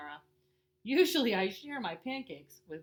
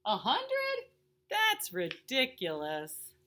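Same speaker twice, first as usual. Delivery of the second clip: high, loud gasp then slow scoff; mock disbelief; 3 semitones higher, 6 dB louder, much slower than usual. Daddy hearing a hundred pancakes, loud mock disbelief. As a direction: play at being shocked.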